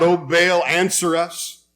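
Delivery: a lightly voiced fervent plea, slow on the end; calling out. Preacher voicing priests calling on Baal, mild fervent call. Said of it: "then they're calling out".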